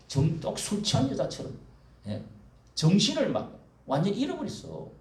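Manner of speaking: normal talking voice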